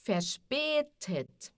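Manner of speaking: verspätet with ä as a long E, slowly; Ä como E. Shown as a demonstration. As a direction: slowly model Verspätet, stretching ä as "eh". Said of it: "A tremado, som de E". (Verspätet devagar, com ä soando como E)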